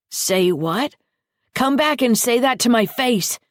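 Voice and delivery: loud, high cracking scream; screaming boy. A narrator's reading. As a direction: shriek it at him. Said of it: "he screamed".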